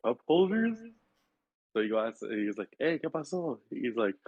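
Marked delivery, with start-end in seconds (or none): 0.1-0.8 high-pitched, questioning imitation; puzzled fast-food worker. Customer imitating the puzzled order taker, high baffled voice. 2.8-3.6 put-on higher-pitched Mexican-accent call; imitated Mexican accent. Friend voicing the order taker, Mexican accent. Accented worker voiced in story.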